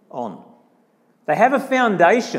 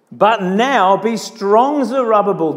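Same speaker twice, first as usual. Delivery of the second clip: slow, loud rallying call; pep talk; 2 semitones higher, 5 dB louder than usual. Retold or imitated. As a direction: exhort with deliberate emphasis. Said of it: "this is the pep talk".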